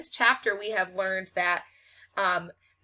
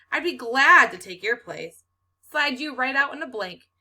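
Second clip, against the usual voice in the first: serious; 5 semitones higher, 7 dB louder than usual. A narrator's reading. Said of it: "He sounds serious".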